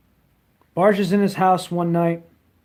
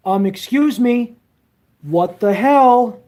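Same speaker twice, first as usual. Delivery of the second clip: higher, drawn-out indignant demand; girlfriend's indignant voice; 6 semitones higher, 6 dB louder than usual. Retold or imitated. Girlfriend catching him with cigars, higher and indignant. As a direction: play the offended girlfriend. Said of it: "And she goes".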